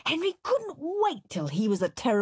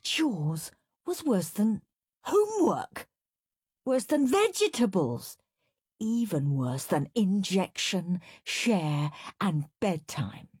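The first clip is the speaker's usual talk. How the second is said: put-on whiny child. Henry's inner complaint, whiny voice.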